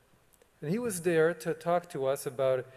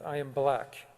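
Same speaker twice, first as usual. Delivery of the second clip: put-on thick South African accent. Principal tells the school assembly he is black, lightly imitated South African accent. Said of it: "in this thick South African accent".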